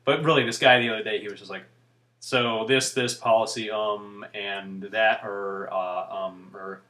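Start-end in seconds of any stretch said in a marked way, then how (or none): 2.2-6.8 mock hesitant radio guest, ums trailing lower; imitating halting filler-speak. Vlogger mimicking a radio guest, halting with fillers. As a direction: stumble along, an um or uh every few words. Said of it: "it was really prominent, every other word".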